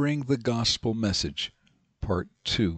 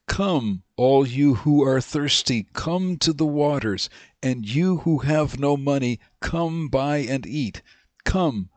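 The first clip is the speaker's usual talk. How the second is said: slow, measured reading of a Bible verse; scripture reading; 2 semitones higher than usual. Acted. Teacher reading scripture to the class, slow and measured. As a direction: read the verse slowly and deliberately. Reads Isaiah aloud.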